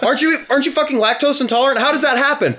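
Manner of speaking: high-pitched, laughing incredulity; acted baffled disbelief. The speaker questions Evan about the milk, mock bewildered.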